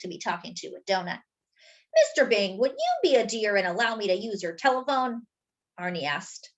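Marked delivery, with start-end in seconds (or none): 1.9-5.3 extra polite. Acted. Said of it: "extra politely".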